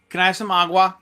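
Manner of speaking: put-on "agua" with an American accent; gringo-style "agua"; American accent Spanish. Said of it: "I say that like a gringo".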